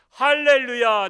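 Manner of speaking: loud slow 할렐루야 stretched out; drawn-out joyful cry. Acted. Dying believer greeting God with slow loud joy.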